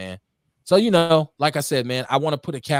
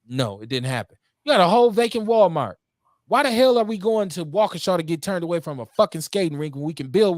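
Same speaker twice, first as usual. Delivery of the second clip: real worked-up rant, pitched up; emotional; 4 semitones higher than usual. Real, not acted. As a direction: argue it out, heated and insistent. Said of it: "I get emotional sometimes".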